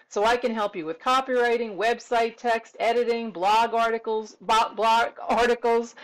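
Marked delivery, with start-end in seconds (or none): 4.4-5.9 fumfered false start, then carefully repeated; tongue-tied stumble. Real, not acted. Freelancer listing services to clients, tongue-tied for a moment. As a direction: trip on the first word, then restart. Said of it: "I got a little fumfered up there".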